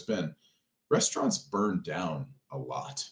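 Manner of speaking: slow, matter-of-fact warning; retold grave answer. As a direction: deliver it slowly as a sober engineer's reply.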